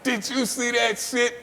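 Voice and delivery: high, loud awe; amazed exclamation. Retold or imitated. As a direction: sound blown away. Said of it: "Everybody's like".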